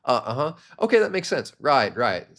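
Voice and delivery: interested filler responses, pitch jumping up on some; engaged listening. Shown as a demonstration. Listener signalling to a talking prospect, engaged. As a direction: react as an attentive listener egging them on. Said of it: "to signal that you're actually engaged".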